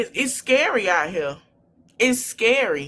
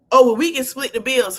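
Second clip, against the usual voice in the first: mock man; 2 semitones higher, 6 dB louder than usual. Mocking a man's line.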